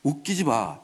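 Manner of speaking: low-key scornful dismissal; understated mock-king contempt; sarcastic. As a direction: brush the beggar off. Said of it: "이러면서 빈정거립니다".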